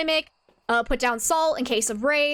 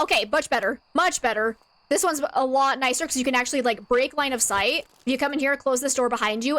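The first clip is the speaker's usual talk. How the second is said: normal talking voice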